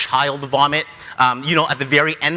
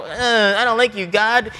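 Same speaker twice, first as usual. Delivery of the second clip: higher, mildly sulky grumble; mock pouting; 4 semitones higher than usual. Jonah sulking at God, mock pouting. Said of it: "He's pouting, he's mad".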